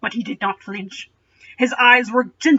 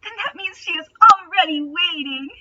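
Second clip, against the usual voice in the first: higher, brightened-up reread of the line; cheerfully; 7 semitones higher than usual. A narrator's reading. Aragorn trying cheerfully to lift Legolas's spirits. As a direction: force cheer to lift his friend. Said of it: "as cheerfully as he could".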